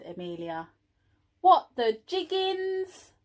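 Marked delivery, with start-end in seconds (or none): 1.4-3.1 high, slow astonished gasp; shocked little bees; gasping mock shock. A narrator's reading. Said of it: "gasped all the little bees".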